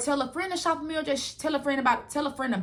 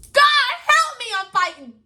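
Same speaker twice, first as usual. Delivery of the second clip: mock plea; 12 semitones higher, 7 dB louder than usual. Dramatic plea to God.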